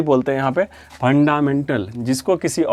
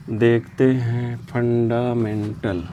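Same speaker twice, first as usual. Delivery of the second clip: slow dictation; 3 semitones lower, much slower than usual. Shown as a demonstration. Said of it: "dictating slowly to class".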